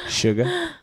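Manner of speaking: high squeaky mocking sugar; mock sweet talk. Mocking the pet name again.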